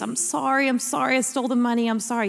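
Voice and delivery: put-on mild, hurried pleading of an upset child; lightly acted contrite child; retold tearful apology. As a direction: apologize over and over, understated tearfulness. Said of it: "tears flowing down my face".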